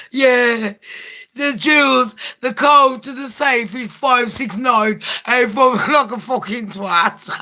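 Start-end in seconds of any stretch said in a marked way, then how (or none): 0.1-5.7 mock simpleton prince spilling secrets; Prince Harry. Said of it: "And Harry's there going".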